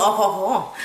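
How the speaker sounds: low-pitched, hammed-up French accent; mock French accent. Reviewer mocking actress's French accent, low French-accented imitation. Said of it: "she had the French accent".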